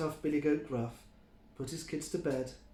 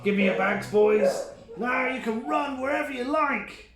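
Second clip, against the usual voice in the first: cheerful call; 8 semitones higher, 6 dB louder than usual. A narrator's reading. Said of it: "Big Tough Billy Goat Gruff said".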